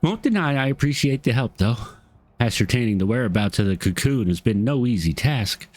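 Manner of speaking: light Southern twang on an NPC's lines. Acted. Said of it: "that's the voice I'm going with".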